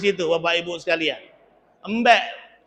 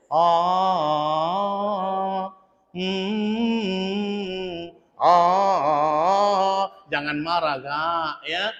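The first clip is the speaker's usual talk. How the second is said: tender soothing; 3 semitones lower than usual. Retold or imitated. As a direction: soothe him gently.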